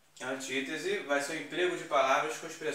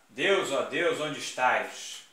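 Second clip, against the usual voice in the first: louder, slowed pleading call to God; dramatic invocation; 5 dB louder, slower than usual. Shown as a demonstration. Teacher performing the apostrophe to the class as a dramatic plea. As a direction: cry out to the heavens, drawn out. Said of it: "Olha lá".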